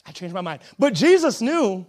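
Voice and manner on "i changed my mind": low, much softer aside; quiet retraction. Pretend. Preacher as Jesus to Peter, quiet mock retraction. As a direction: drop the voice right down to take it back. Imagined Jesus taking back his word.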